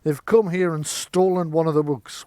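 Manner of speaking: indignant apprentice laying blame; indignant Magnus. Acted. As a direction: accuse them loudly, as if proven right. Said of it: "Magnus is like".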